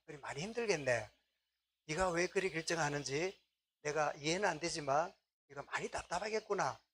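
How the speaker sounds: gentle empathy. Acted. Parent empathizing with child.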